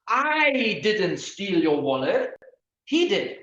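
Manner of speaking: "I" stressed, slow and rising. Shown as a demonstration. Lecturer demonstrating stress on "I" for a reading class. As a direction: lean on the "I" in "I didn't steal". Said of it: "The first one".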